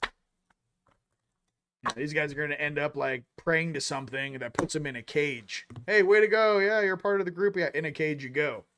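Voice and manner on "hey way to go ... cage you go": mock cheer that settles back down; mock welcome. Voicing the duped group's welcome.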